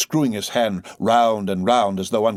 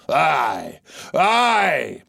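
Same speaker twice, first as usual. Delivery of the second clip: sobbing shout; 6 semitones higher, 5 dB louder than usual. A narrator's reading. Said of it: "shouted with a terrific, loud animal sob".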